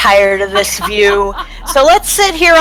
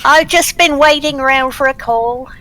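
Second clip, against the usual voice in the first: put-on British accent; 3 semitones higher than usual. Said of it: "I've ever heard him like a British accent".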